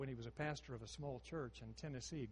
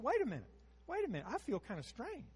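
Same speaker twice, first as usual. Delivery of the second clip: urgent; 6 semitones higher, faster than usual. Retold or imitated. Woman stops the preacher.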